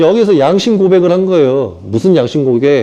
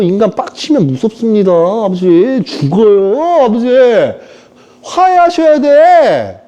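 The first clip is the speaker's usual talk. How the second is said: pleading son; 6 semitones higher than usual. Acted. Saul pleading with God, acted.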